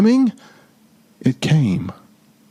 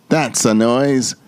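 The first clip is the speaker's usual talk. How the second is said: grinning. Acted. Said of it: "grinned the Grinch".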